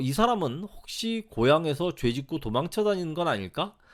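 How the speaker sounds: plain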